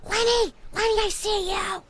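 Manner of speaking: hushed shout to a friend; whisper yelling. Acted. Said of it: "I'm whispering yelling".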